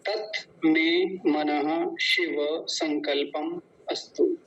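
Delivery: slow, measured recital of a verse; Sanskrit mantra recitation. Acted.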